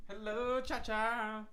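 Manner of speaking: high excited pet-talk greeting; doggy greeting. Real, not acted. Greeting the dog on camera.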